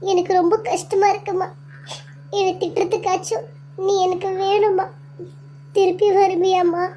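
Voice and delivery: high, tearful plea to her dead mother; grieving plea. Acted. Daughter begging her lost mother to come back, tearful. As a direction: mourn her, voice aching.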